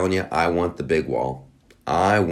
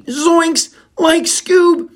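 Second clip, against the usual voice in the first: much higher, louder goofy cartoon voice; Shaggy impression; 6 dB louder, much slower than usual. Naming the new show's characters, high cartoon squeal. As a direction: squeal it like a panicky cartoon stoner.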